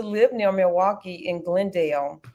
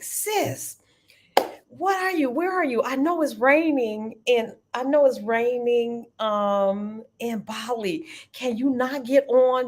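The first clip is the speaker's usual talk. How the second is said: friend on the phone; 3 semitones higher than usual. Retold or imitated. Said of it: "She's like".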